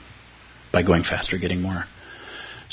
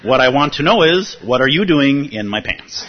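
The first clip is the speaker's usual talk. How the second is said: punchline pushed out louder through laughter; real laughter breaking into the punchline; laughing; 5 semitones higher, 6 dB louder than usual. Real, not acted. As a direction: crack up while reading the last line.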